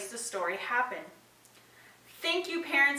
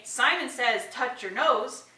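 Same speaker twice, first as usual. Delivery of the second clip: game leader command; slower than usual. Shown as a demonstration. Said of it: "if you say".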